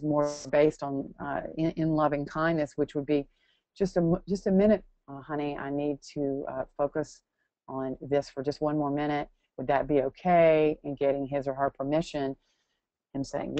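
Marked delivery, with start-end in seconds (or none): 3.8-10.8 patient and kind, a light demonstration; respectful, thoughtful. Retold or imitated. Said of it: "in a more respectful, thoughtful, um, tone".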